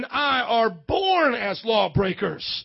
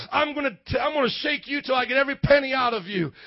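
angry creditor; 4 semitones higher, 3 dB louder than usual. Retold or imitated. Creditor threatening his friend.

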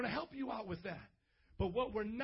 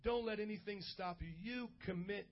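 measured, subdued urging with pauses; pastoral altar appeal. Real, not acted. Pastor asking bowed heads to choose a church, subdued appeal. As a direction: gently press them toward a decision.

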